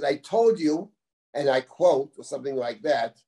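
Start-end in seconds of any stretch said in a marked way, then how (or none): 0.0-0.9 "I told you" with TOLD pitched up high; emphatic. Acted. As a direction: lean on TOLD in "I told you", lifting at the end. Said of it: "the emphasis".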